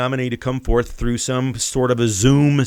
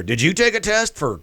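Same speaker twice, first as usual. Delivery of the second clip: mock Biden retort; 5 semitones higher than usual. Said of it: "Then he asks the reporter".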